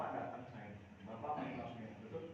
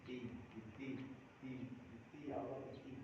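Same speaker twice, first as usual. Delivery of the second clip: selfish whine; 2 semitones lower, 6 dB quieter, slower than usual. Retold or imitated. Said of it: "kita bilang".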